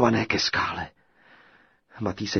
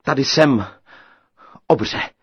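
louder, bold call; 5 semitones higher, 9 dB louder than usual. A narrator's reading. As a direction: call out to the giant. (odvážné zvolání)

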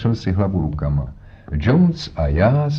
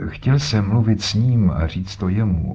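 put-on stubborn old man. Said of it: "s nerudnou stařeckou umíněností".

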